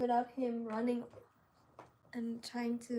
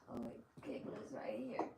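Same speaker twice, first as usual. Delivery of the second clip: whispering; 17 dB quieter than usual. Real, not acted. Whispering while working.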